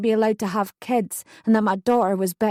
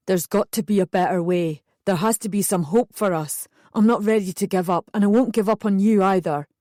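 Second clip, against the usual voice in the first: lightly voiced Darren, pleading. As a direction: reassure her gently as Darren.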